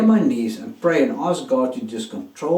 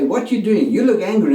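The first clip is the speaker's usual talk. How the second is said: buddies calling out; 6 semitones higher, 4 dB louder than usual. Retold or imitated. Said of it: "my buddies say".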